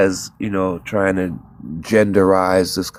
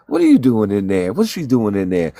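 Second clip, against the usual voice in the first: angry demand; 4 dB louder than usual. Retold or imitated. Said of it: "I don't want to cuss".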